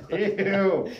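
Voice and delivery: high, loud, drawn-out revulsion; disgust. Real, not acted. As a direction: squeal out your disgust. Reacting to furry roleplay joke.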